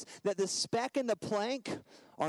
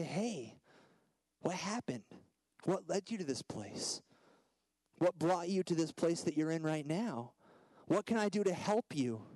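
gentle concern. Retold or imitated. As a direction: ask tenderly, with room between questions. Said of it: "We restore them gently".

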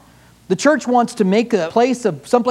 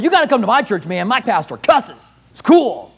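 boastful churchgoer; 4 semitones higher, 3 dB louder than usual. Acted. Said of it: "They'd go and tell people".

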